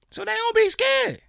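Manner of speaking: airy high mimic of fearless people; mock carefree. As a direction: float it up, breezy and unbothered. Mocking white folks' calm.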